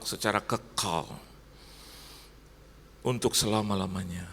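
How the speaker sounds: earnest, projected pastor's prayer; congregational prayer. Real, not acted. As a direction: lead the congregation in prayer, measured phrases with pauses. Leads closing prayer.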